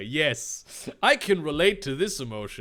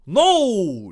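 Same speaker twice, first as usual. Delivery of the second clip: loud, high, drawn-out refusal; Dave; 5 semitones higher, 8 dB louder than usual. Acted. Dave refuses to call for help, a loud wail. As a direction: wail the word, falling away. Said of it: "Dave said".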